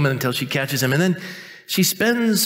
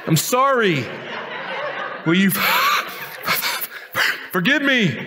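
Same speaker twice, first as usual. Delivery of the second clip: high-pitched, laughing apology, broken up by laughs; husband sheepishly admitting he was wrong, laughing through it; mock humble apology; 9 semitones higher, slower than usual. Pastor imitating a husband apologizing to his wife, laughing. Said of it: "men have to learn how to say".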